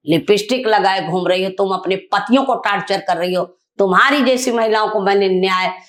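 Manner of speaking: retold angry tirade. Angry speech at meeting organisers.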